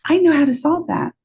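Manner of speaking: lively friend-to-friend pitch; excited friend. Shown as a demonstration. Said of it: "You'd be like".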